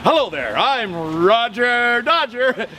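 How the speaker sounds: a hint of a slow radio-host voice. Shown as a demonstration. DJ showing a stranger his radio voice, slow. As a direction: slowly lay on your radio voice. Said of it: "Do you know this voice?".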